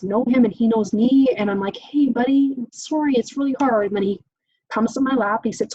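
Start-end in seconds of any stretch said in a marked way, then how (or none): 1.8-3.9 put-on higher, sympathetic talk to a child; sympathetic parent. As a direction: imitate comforting an upset kid, pitched up. Parent voiced comforting upset child.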